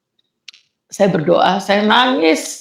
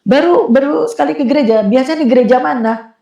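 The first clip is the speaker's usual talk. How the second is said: lightly voiced worship leader, pitched up; higher, lively retold questioning; 4 semitones higher than usual. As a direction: imitate a curious greeter questioning a newcomer. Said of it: "ada W L yang tanya".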